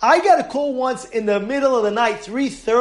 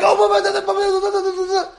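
mock ranting; 9 semitones higher than usual. Mocking an upset leader ranting.

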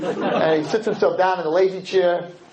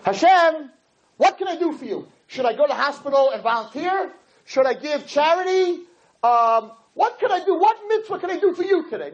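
higher, eager, earnest asking; the ideal Jew asking God what he can do, eager and higher; eager offer to God; 6 semitones higher than usual. Retold or imitated. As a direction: sound keen to serve, not to take. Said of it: "and says".

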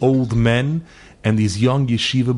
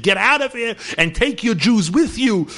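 furious yell; 11 semitones higher than usual. Retold or imitated. Governor screaming at the rabbi to get out, furious yell. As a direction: scream him out the door with hatred. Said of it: "He was screaming and yelling with such hatred".

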